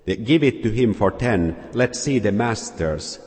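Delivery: mild shout. Acted. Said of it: "shouted w-, one voice".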